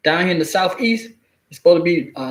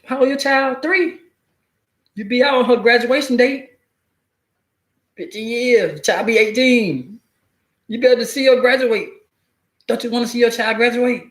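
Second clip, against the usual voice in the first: higher, salesy lawyer pitch; pushy state lawyer; 4 semitones higher than usual. Retold or imitated. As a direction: sell him the plea deal, higher. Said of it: "That's how they be scaring on people".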